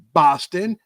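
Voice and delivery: lightly put-on Boston accent; Bostonian accent. Shown as a demonstration. Host showing off his best Bostonian accent to listeners. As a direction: attempt a Bostonian accent on the city's name. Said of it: "that's my best Bostonian, uh, accent".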